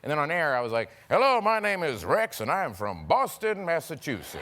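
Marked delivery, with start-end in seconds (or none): 1.1-4.4 mock Boston accent, lightly overdone. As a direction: switch into a mock Boston guy. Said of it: "he's a Boston guy now".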